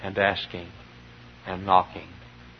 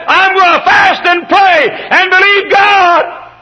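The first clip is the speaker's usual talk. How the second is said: very high, loud, slow cry; hammed-up tearful wife crying out her vow; mock wailing wife shouting at the altar; wife's vow shouted; 11 dB louder, much slower than usual. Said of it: "She said".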